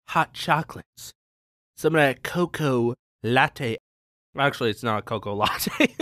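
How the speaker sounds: talking through a mouthful; words around food while eating; chewing while talking. Real, not acted. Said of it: "sorry for the eating noises".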